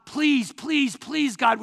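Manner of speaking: acted fervent plea; pleading. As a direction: beg with emotion, punching each please. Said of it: "That means asking with emotion".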